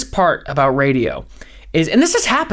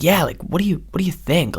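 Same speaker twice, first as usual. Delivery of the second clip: softer, lightly voiced laid-back podcaster; mellow Rogan; 4 dB quieter than usual. Mocking Rogan's interview style, softer laid-back drone. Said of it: "talk like this".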